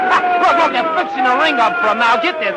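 loud mocking chuckles at the ring; jeering laugh. Fan laughing at the champ's flower-decked corner, loud jeering. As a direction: laugh him off as a joke.

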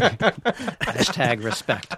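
slow hashtag. Shown as a demonstration.

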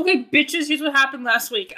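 talking with a mouth full of fries; chewing while talking. Real, not acted. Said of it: "I'm eating french fries".

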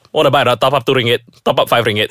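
slightly lifted mock vendor patter; lightly acted mall hawker touting top-ups; imitated sales pitch. Acts out former prepaid card sales pitch.

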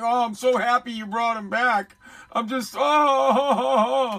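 gushing imitation of a relieved owner; mock gushing happiness. Host imitates the happy dog owner, mock relieved gushing. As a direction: melt into a long drawn-out "oh". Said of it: "you hear it in his voice, he's like".

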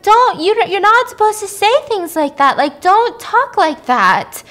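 imitating a heartbroken mom begging through tears; mock crying mother. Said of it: "like, crying".

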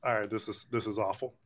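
strained by ghost pepper heat; mouth burning from spicy food. Real, not acted. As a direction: talk through a burning mouth. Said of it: "My eyes are watering".

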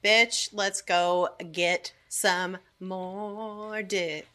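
put-on slow, sassy girlfriend voice; sassy quote. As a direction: drawl it out like a sassy friend. Friend voiced as freed widow.

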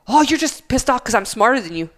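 mock student backtalk. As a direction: throw it back at the teacher, imitating. Acted student talking back in argument.

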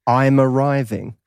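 slow, deliberate British meme line; slow meme read. Shown as a demonstration. British guest reading a meme for the host, slowly. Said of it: "Just read 'em slowly into the mic".

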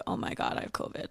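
very soft, almost whispered thought; hushed inner voice. Retold or imitated. Woman silently realizing what the phone call means, hushed. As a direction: think it aloud, barely voicing it. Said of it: "I thought to myself".

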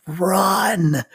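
high, loud, drawn-out cheer; yelling. Retold or imitated. Every voice yelling at tiny t-ball kids, excited yell. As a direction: holler it out across the ball field. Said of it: "every voice in the world yells".

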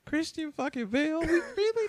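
high-pitched mock disbelief; incredulous retelling. Host retelling his reaction to Bale's casting, incredulous. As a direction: question it high, as if appalled. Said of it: "I was like".

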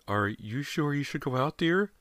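high, timid motherly voice; a worried wife's high, hesitant question. A narrator's reading. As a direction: ask gently, afraid of the answer. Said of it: "asked timidly".

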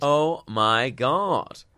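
drawn-out shocked gasp; slow stunned disbelief. Real, not acted. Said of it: "reacts in shock".

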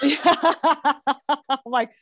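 real laughter through the words; laughing. Real, not acted. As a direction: start the quote while cracking up. Laughing along with the friend.

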